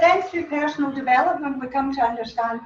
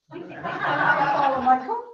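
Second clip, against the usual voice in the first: laughing; much slower than usual. Real, not acted. Laughing at slot change.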